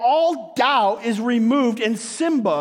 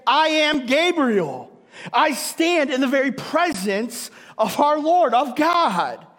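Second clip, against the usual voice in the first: commanding angel; 3 semitones higher than usual. Retold or imitated. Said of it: "big difference between the two".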